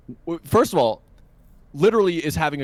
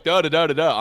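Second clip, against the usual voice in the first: mock babble, a little louder; imitated spouting off; 3 semitones higher, 4 dB louder than usual. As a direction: mimic someone rattling on in nonsense syllables. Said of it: "spouting off".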